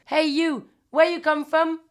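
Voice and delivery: put-on voice of a curious host; imitated bar host calling out. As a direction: call over to a stranger across the bar. Voices Jack calling the stranger.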